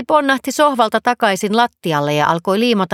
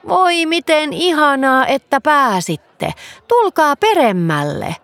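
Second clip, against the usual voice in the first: a hint of a doting granny drawing the words out; delighted fox granny; 6 semitones higher than usual. A narrator's reading. Fox granny greets guests.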